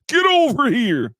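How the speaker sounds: high, loud fighting-game yell; Scorpion. Acted. Commentator imitates a Mortal Kombat fighter, high yelled command. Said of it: "I know that's Scorpion".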